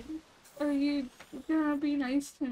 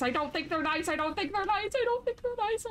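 climbing higher each repeat, ending in a squeak; higher and higher, scared and whiny; rising whine; 6 semitones higher, faster than usual. Shown as a demonstration. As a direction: creep the pitch up and up like a nervous child. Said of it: "Oh, I don't think they're nice".

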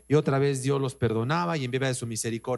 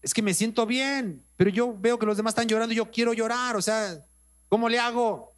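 higher, quicker voice of a puzzled church sister; 5 semitones higher than usual. Retold or imitated. Sister confides to her pastor that she cannot cry, higher and puzzled. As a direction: lightly play her confusion, a bit rushed.

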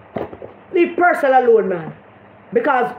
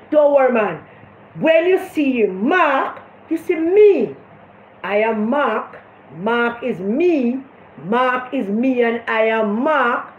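mock Bunting; slower than usual. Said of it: "Bunting tell him".

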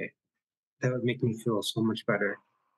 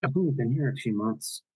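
put-on light Irish nanny accent; a hint of a brogue as the nanny. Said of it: "my terrible Irish accent".

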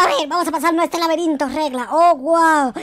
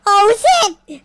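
loud, higher-pitched exclamation; startled shout; 6 semitones higher, 8 dB louder than usual. Real, not acted. Gamer startled by his find, startled shout. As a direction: yell it out, loud and high.

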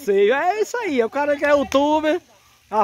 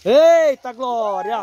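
delighted exclamation; 5 dB louder, much slower than usual. Real, not acted. Excited cry on the park ride.

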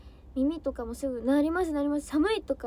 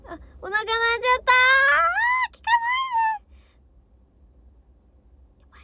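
high, loud flustered squeal with a stretched ったー; embarrassed squeal; 12 semitones higher, 10 dB louder than usual. Real, not acted. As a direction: shriek it out, embarrassed by your own stomach. Stomach growls live on stream. (恥ずかしそうな甲高い悲鳴)

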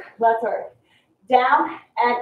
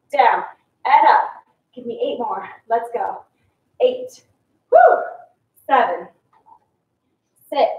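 aerobics instructor; 2 semitones lower than usual. Acted. Counting reps in a workout class.

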